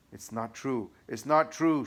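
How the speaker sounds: second 'not true' high and loud; devil shouting. Acted. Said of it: "shouted the devil".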